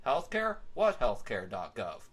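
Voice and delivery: sarcastic, slowed jab at the website name; mocking jab. Host mocks the health care website name with a slow sarcastic jab. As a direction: sneer at the name. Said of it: "or as I like to call".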